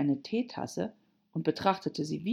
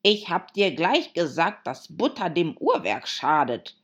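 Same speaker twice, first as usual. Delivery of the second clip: mildly angry, louder scolding; angry reproach; 5 dB louder than usual. Acted. Hatter blaming the March Hare for the butter, cross. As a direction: scold with a touch of anger. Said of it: "sah den Märzhasen wütend an".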